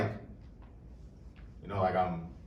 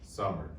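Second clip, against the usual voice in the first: "Summer" with the weight on "Sum"; stress on first syllable. Shown as a demonstration. Poet demonstrates meter to audience, "Summer" stressed on "Sum". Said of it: "the first syllable, sum, is the stressed syllable".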